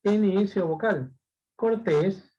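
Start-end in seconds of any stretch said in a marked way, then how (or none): 1.6-2.3 Cortés with the final E leaned on; stress on last syllable. Shown as a demonstration. Teacher showing an example with tilde, stress on TÉS in Cortés. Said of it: "son agudas".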